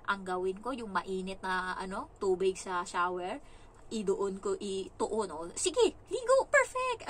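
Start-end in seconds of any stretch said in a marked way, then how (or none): 5.6-7.1 very high, loud sarcastic cheering; mock egging-on. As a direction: cheer the child on with exaggerated delight. Mock egging child on in shower. (matinis at malakas na kunwaring pagbubunyi)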